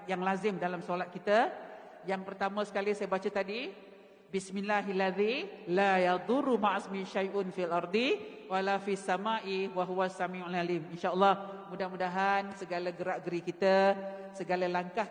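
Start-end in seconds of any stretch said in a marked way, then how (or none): 4.3-10.9 prayer recitation. Acted.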